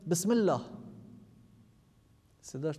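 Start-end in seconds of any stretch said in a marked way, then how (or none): 0.1-0.6 bismillah called out loud; old man on the stage cries بسم الله loudly; loud cry. Retold or imitated. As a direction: call out بسم الله over the crowd. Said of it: "با صدای بلند گفت که".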